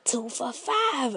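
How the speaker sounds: low, soft hustler pitch in a hush; secretive whisper. Retold or imitated. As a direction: whisper the deal like a street dealer. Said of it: "And they like".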